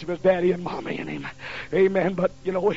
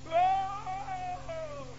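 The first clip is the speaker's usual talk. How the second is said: high mock groan as if hurt; fake pained cry; 11 semitones higher, 10 dB quieter than usual. Boy faking injury to stop his mother, mock cry. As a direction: pretend to collapse in pain. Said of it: "I acted like I fell on the bed".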